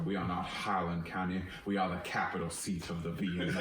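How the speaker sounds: a lightly put-on rural local accent, proud. Proudly claiming the county for the locals, in a lightly put-on accent. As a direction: boast like a hometown local in a mild put-on accent. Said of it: "fun to say in that accent".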